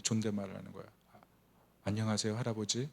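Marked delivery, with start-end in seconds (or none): 1.8-2.9 조용하고 공손하게 인사하는 손녀 흉내; 살짝 예의 바르게, 낮춘 목소리로; 너무 정중하게. Retold or imitated. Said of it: "너무 정중하게". (갑자기 존댓말 쓰는 손녀처럼 정중하게)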